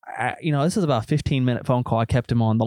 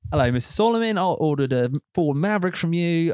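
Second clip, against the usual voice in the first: higher-pitched phony customer voice; put-on prank-call accent; 5 semitones higher than usual. Prank caller asking salesman about a truck, put-on accent. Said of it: "I'm doing it in my whole accent".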